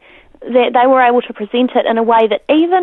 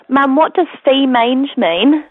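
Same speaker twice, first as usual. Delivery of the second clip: put-on a slow, slightly higher little-girl voice; four-year-old accent; 4 semitones higher, slower than usual. Mother retelling her small daughter's question, in a light child voice. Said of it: "in her four-year-old accent".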